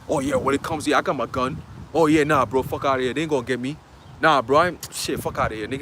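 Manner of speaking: low, dismissive tough-guy bravado; mock big talk. Preacher mocking the big talker with a gun, low bravado. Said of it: "that big talk nigga comes into play".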